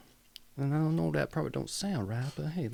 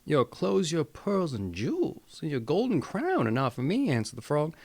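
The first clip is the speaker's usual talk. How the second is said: put-on Southern accent. Storyteller reading the Grimm tale to viewers, light Southern accent. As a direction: tell the frog story with a hint of a Southern accent. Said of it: "gonna chew my southern voice there".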